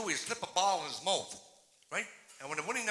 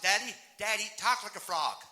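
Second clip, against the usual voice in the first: put-on little girl; 3 semitones higher, 5 dB louder than usual. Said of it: "This little girl goes to her father".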